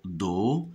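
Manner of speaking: do, blended from D and O; détache la syllabe do; sounding out the syllable. Shown as a demonstration. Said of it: "D avec O". (syllabe do articulée)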